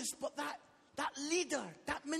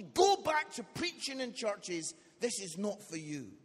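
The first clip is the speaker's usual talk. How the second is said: stern rebuke; 3 semitones lower, 5 dB louder than usual. Retold or imitated. Church leader scolds him after show.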